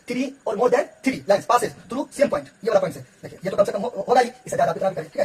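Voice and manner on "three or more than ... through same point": very slow, word by word; slow dictation. Shown as a demonstration. Teacher to students, dictating the definition very slowly.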